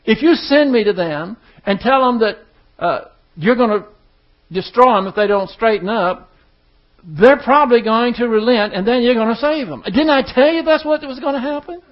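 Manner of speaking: an annoyed prophet saying I told you so; exasperated Jonah. Retold or imitated. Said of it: "In other words".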